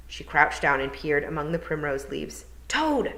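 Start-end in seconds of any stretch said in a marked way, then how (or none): 2.7-3.1 high, sharp call to the toad; yell. A narrator's reading. Tiffany yelling for the toad. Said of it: "she yelled".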